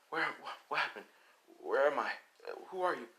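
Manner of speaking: lightly acted groggy confusion; just waking up. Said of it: "he wakes up".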